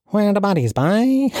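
high, sing-song mock Cork accent. Mocking a protester from Cork, exaggerated Cork accent. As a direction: imitate a Cork man, pitched well up. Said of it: "I'll do a Cork accent".

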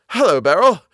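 cool, loud, curt hello; uncordial greeting. Acted. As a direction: greet her without warmth. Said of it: "tone of his greeting was not altogether a cordial".

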